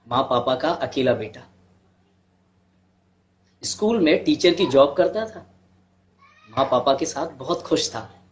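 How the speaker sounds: measured storytelling with long pauses; understated monologue, pausing heavily between sentences; dramatic monologue. Acted. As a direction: recount a hard life story in earnest, phrase by phrase.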